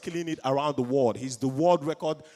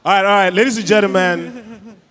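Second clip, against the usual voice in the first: calling for attention; 8 dB louder than usual. Real, not acted. Host to a chattering crowd, calling them to attention. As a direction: project over a chattering room.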